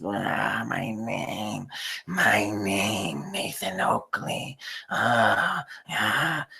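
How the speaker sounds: slow, drawn-out smug savoring of his own name; mock someone basking in hearing his name; hammed-up self-satisfied moan; mock gloating. Mocking Nathan savoring his name.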